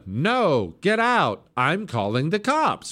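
mock indignation, swooping up; mock indignant homeowner. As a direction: play someone turning visitors away. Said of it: "I bet you he would be a".

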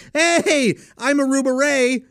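high, loud smarmy greeting; Aruba Ray voice. Acted. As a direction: introduce yourself like a sleazy barman. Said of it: "and I just did it".

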